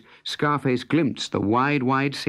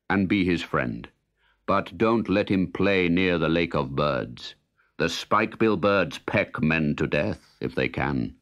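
lightly lowered voice of the sun; low stately Sun; 5 semitones lower than usual. Acted. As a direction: speak with calm authority of the sun. The sun speaks to Scarface.

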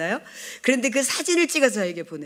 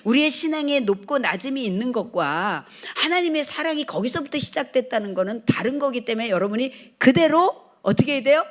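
normal talking voice

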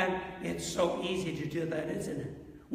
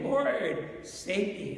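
crying out to the Lord; much slower than usual. Retold or imitated. Preacher voicing a sinking believer's plea. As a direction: call out Lord, save me as a plea. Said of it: "You cry out and you say".

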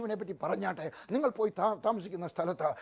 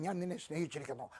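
much softer, lower, tender; tender divine words; 4 semitones lower, 10 dB quieter than usual. Acted. Preacher voicing God's love to a hurting listener, soft and tender. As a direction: say it like a gentle promise. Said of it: "ദൈവം പറയുകയാണ്".

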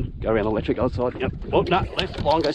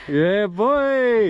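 higher, louder whoop for the catch; excited cheer; 9 semitones higher, 4 dB louder than usual. Real, not acted. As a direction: cheer your mate like you just won. Cheering the fish.

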